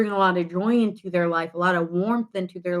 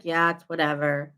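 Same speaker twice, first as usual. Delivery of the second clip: nonchalant; 4 semitones lower than usual. Retold or imitated. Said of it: "they have that kinda attitude".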